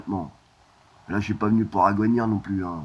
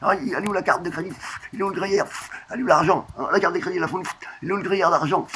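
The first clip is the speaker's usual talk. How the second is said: high-pitched little mouse voice; high, fretful mouse; 6 semitones higher than usual. Acted. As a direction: squeak the questions like a searching mouse. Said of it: "une petite souris".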